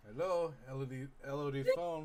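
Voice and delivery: gruff voice. Acted. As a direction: answer the phone gruffly. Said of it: "You hear a gruff voice say".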